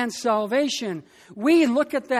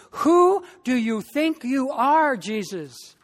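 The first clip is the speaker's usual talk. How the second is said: higher, louder, slow indignant demand; angry disciples; 3 semitones higher, 3 dB louder, slower than usual. Acted. Disciples in the storm demanding of Jesus, angry. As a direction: confront Jesus, ticked off. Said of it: "They were, uh, angry at Jesus".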